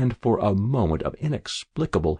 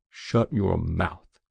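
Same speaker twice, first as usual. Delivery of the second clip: quiet slow anger; much slower than usual. Acted. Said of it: "said Lean".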